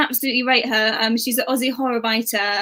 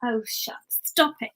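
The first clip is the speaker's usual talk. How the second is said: mock bashful; 5 dB quieter, slower than usual. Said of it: "Making me embarrassed".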